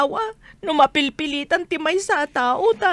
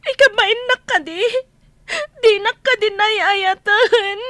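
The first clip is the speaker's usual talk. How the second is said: crying; 3 semitones higher, 4 dB louder than usual. Acted. Wife begging her husband to come home, crying. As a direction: let the words break with tears.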